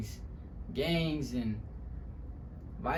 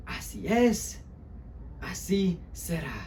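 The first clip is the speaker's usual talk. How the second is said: mild, higher-pitched consoling voice; comforting mother; 6 semitones higher, slower than usual. Acted. Mother comforting her children in Spanish, gently consoling. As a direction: soothe with short, spaced phrases. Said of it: "my mother would always try to comfort us".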